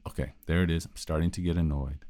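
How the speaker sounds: calmly note it to yourself, quietly; quiet inner voice. Shown as a demonstration. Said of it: "say it in your head".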